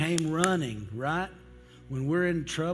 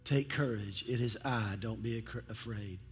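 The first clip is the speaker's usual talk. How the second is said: calm reassurance; 3 semitones lower, 5 dB quieter than usual. Acted. Preacher repeating Jesus' words to the congregation, calmly reassuring. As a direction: lower voice, softening to the end.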